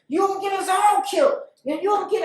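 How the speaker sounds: high, loud scolding; retold angry warning. Man berates her for endangering them all, angry.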